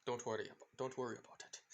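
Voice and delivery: put-on amateur pirate accent, easygoing and reassuring; Jack Sparrow. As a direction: have a clumsy go at a pirate captain's accent. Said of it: "I'm trying to do the accent".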